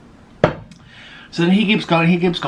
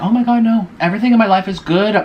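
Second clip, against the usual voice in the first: mock protest; 7 semitones higher, 4 dB louder than usual. Acted protest in her thoughts.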